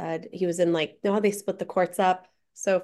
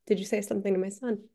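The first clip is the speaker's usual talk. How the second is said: softer, faster, gentle repeat of the question; calming repeat after promising no trouble; softer reassuring ask; 6 dB quieter, faster than usual. Retold or imitated. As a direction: ease off so he'll own up. After assuring he won't get trouble.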